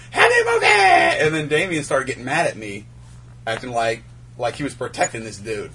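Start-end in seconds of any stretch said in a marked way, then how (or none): 0.1-0.7 yelled name, much higher and louder; calling out. Retold or imitated. Drunk bouncer calling after a passerby, loud call. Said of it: "I kept going".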